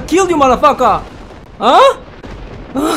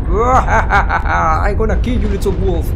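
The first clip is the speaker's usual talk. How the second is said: villain voice; 4 semitones lower, slower than usual. Acted. Voicing the game villain.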